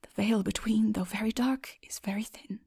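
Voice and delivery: soft, fading to a whisper; said to himself. Acted. Man alone in the dark tells himself, whispering softly. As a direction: murmur it to yourself, dropping to a whisper. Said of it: "I said to myself".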